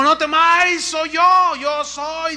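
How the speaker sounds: Jesus calling out loud and high over the storm; Jesus lifting his voice to calm the frightened disciples. Retold or imitated. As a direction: call it out across the water, no fear. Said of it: "alzó la voz y dijo".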